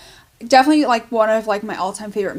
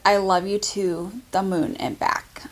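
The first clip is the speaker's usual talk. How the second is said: whispered tenderly, softer; 3 semitones lower, 5 dB quieter than usual. Real, not acted. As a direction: whisper the tumbler's words like a secret. Reading the sentimental tumbler text.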